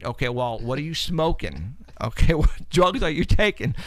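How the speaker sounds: mildly mocking disbelief; incredulous. Reacting to Justin's wild stories, a mild incredulous scoff. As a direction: scoff as if at a stoner. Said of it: "We were going".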